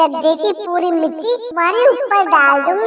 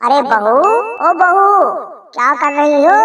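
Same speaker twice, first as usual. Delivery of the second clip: lightly voiced taunting mother-in-law; 2 semitones lower than usual.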